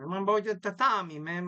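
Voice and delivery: put-on joking Italian accent on Tommy. Podcaster demonstrates how he says Tommy, mock Italian accent. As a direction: lean playfully into an Italian accent. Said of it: "I have this Italian accent".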